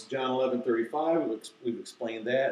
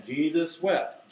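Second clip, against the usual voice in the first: drawn-out group recitation; slow, deliberate; 3 semitones higher, slower than usual. Shown as a demonstration. Teacher having kids say it again, slow and deliberate. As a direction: lead them slowly through each word. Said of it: "I have to say it slowly, deliberately".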